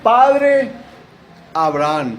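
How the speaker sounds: high, loud anguished call to Abraham; crying out loud. Acted. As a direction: call out to the father from far away. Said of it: "él dando voces dijo". (gritando "Padre Abraham" con angustia)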